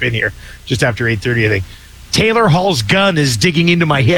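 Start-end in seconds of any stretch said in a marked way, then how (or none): 2.1-4.2 laughing while reading. Real, not acted. Reading a funny text aloud.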